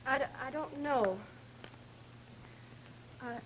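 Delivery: halting, uneasy, with long pauses; scared. Acted. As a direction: hesitate and falter, quietly frightened. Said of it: "you're scared".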